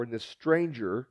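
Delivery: normal talking voice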